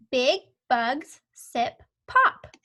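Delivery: slow, deliberate word-by-word; slow read-along. Shown as a demonstration. Teacher reading along with the pupil, slow and clear. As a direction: read it slowly so the child can follow. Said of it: "I'm gonna read it with you".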